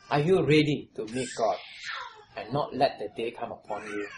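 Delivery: a real catch of crying in the voice; tearful appeal. Real, not acted. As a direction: voice catching with emotion. Preacher's emotional appeal.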